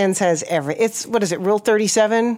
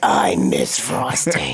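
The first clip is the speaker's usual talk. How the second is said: much lower, slow mournful croak; Harvey Fierstein impression; 13 semitones lower, much slower than usual. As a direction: sink deep and slow into mock grief. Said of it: "Do your Harvey Firestein".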